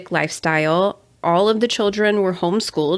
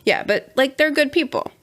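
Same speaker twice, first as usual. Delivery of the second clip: mock praise, pitch lifted on they're; sarcastic; 6 semitones higher than usual. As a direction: say it dripping with sarcasm. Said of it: "Sarcastically saying".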